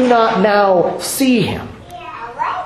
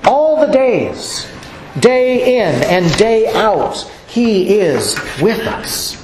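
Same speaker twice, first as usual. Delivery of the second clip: slow emphasis; slower than usual. Shown as a demonstration. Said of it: "Always is literally".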